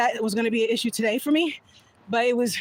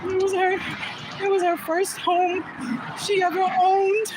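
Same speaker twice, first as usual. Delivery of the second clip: getting emotional; 3 semitones higher than usual. Real, not acted. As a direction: voice rising and slowing as tears come. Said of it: "okay, I'm getting emotional".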